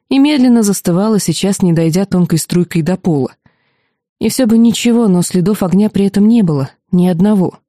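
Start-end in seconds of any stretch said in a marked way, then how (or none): none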